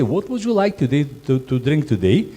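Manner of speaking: gentle, polite waiter. Shown as a demonstration. Waiter asks guest nicely, polite and gentle. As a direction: ask it kindly, welcoming the guest. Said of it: "accept on the different way".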